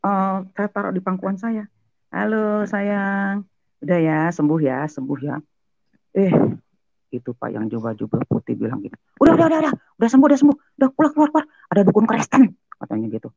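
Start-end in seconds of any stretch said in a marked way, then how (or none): 2.1-5.4 put-on high, cooing to a little child; tender soothing. Soothing the child in her lap. 9.2-12.4 high, urgent shooing of a crowd; alarmed dismissal. Retold or imitated. Man in robes ordering everyone out.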